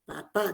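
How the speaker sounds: "papá" with stress on the final PÁ; acento en la última sílaba. Shown as a demonstration. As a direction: lean on the last syllable of "papá". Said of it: "el acento lo colocan en la sílaba". ("papá" con la última sílaba acentuada)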